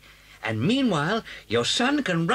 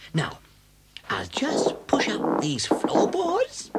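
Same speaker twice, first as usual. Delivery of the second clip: hushed whisper; 3 semitones higher, slower than usual. Acted. Pushing up boards under the farm.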